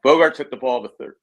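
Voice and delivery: speaking with hiccups. Real, not acted. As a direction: hiccup interrupts the sentence. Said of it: "I got the hiccups, sorry".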